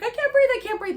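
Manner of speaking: retold choking panic. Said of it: "when I was choking".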